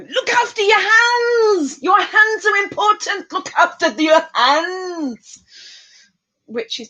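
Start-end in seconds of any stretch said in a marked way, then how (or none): 0.1-5.4 mock stern warning. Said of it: "I wave my hands at people and go".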